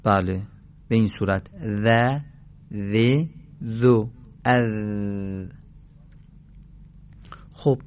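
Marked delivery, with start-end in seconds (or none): 1.6-5.5 ذ، ذ، ذو، اذ as separate "dha, dhi, dhu, adh"; teacher modelling ذ lightly on the tongue tip; tongue-tip thin dhal. Shown as a demonstration. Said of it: "به صورت نوک زبانی و نازک است".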